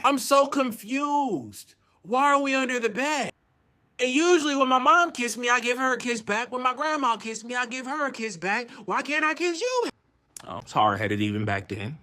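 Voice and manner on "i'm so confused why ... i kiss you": high-pitched, bewildered pleading; baffled protest. Retold or imitated. Confused kid asks why no kissing back, high baffled protest.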